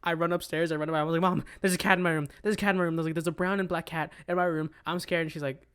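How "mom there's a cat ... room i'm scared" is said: mildly panicked, insistent report; retold fright. Kid running upstairs to tell mom, mildly frightened. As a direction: replay alarm with a touch of urgency. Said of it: "I'm terrified".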